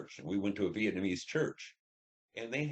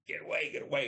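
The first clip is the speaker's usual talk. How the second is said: mock panicked shout to drive him off; half-voiced panicked yell; screaming; 8 semitones higher than usual. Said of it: "I'm, like, screaming at him".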